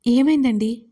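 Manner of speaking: ordinary delivery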